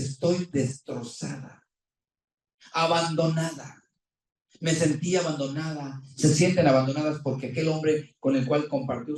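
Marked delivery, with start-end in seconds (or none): 0.0-3.8 slow, whispered and devastated; heartbroken whisper. Retold or imitated. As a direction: breathe it out like a wife left alone. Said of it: "Sentimentalmente dice".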